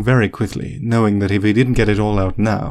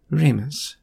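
gentle; 6 semitones higher than usual. A narrator's reading. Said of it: "she said gently".

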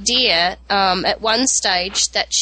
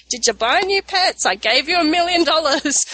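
lightly voiced muddled old mother, higher at first; a hint of a doting mother fussing over pants; mother-in-law voice; 5 semitones higher than usual. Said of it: "And she'd be like".

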